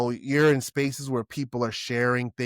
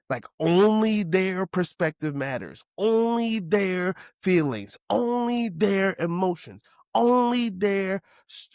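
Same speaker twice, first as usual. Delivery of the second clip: each "only" hit higher and harder; stress on only, building; 6 semitones higher than usual. Real, not acted. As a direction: stack the "only"s, rising each time. Building emphasis on repeated only.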